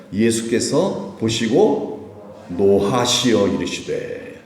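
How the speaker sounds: slow, measured scripture reading. Acted. Preacher reading the verse to the congregation, slow and solemn. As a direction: read the verse slowly and solemnly. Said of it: "한번 읽어볼까요".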